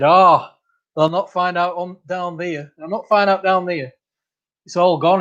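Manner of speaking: lightly mimicked thick Castleford accent. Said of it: "in his thick accent".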